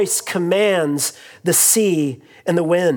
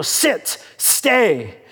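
dog command. Retold or imitated. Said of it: "the way I talk to my dog".

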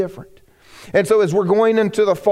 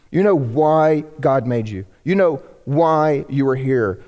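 slower, lower, earnest; slow earnest point; 3 semitones lower, slower than usual. Real, not acted. Pastor pressing home knowing your why. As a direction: let each line sink in.

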